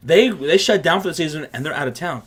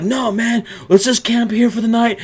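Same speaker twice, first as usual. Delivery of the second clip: higher, louder, pumped up; eager insistence; 4 semitones higher, 5 dB louder than usual. Retold or imitated. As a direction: push the plan enthusiastically. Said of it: "And Sean's like".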